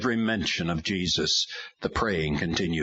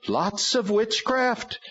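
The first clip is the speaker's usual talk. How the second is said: high, slow strange demon voice; slower than usual. A narrator's reading. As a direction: drag it out like a gloating demon. Demon names itself.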